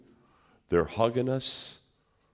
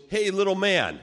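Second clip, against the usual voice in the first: intimidating giant; 10 semitones higher, 5 dB louder than usual. Retold or imitated. Giant standing over Miguel.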